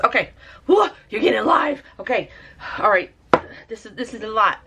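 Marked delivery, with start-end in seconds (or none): 0.7-1.8 surprised whoa. Real, not acted. Paint suddenly spreading.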